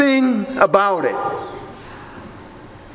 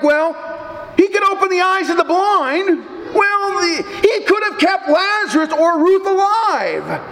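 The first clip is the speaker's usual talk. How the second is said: higher, sneering mock of the doubters; mocking scoffers; 5 semitones higher than usual. Mockers taunting the pastor about Jesus, lightly hammed-up sneer. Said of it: "they mock him with words like".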